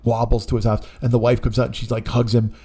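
usual speaking voice

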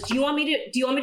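imitating her own pestering, lightly; pushy nagging wife. Wife pestering husband about returns.

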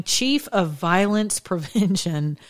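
slow read, laughter breaking in. Shown as a demonstration. Reading the headline to viewers, slow with a giggle. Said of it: "I'm gonna read that again".

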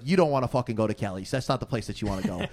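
imitated Queens local warning someone off; roughly imitated Queens street talk; Queens accent. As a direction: put on a strong Queens accent. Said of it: "most strong Queens accent you've ever heard".

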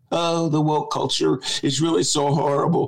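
mocking lament; mock crying complaint. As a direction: whine like an aggrieved crybaby. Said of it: "Republicans are always crying".

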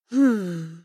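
low, menacing dragon voice; growling dragon guarding treasure. Acted.

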